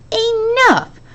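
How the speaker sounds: high, sharp chilling cry of command. A narrator's reading. A sinister man silencing the reporters with a chilling shout. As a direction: cut them all off with one terrible word. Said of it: "such a deep and chilling voice".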